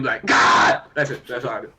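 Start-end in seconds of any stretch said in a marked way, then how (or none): 0.2-0.8 short, rough yell at an opponent; angry yell. Acted. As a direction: yell it out in mock anger. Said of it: "and I yell at him".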